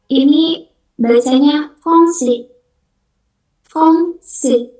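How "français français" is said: français berhenti di I; français, S akhir tidak dibunyikan; silent final S. Shown as a demonstration. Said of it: "Cuman berhenti di I, S terakhir nggak dibaca". (français tanpa S)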